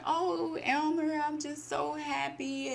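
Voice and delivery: high, slow, swooning wife voice; imitating a wife melting with happiness; gushing wife. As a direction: play the adoring wife, all sighs. Voicing the wife in the story.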